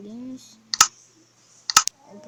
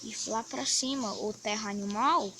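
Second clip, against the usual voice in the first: sore throat voice; 6 dB quieter than usual. Real, not acted. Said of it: "tô falando baixo porque minha garganta tá".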